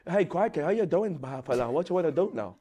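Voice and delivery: badly faked Australian accent. Shown as a demonstration. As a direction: have a feeble go at an Aussie accent. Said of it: "What's your best Australian accent?".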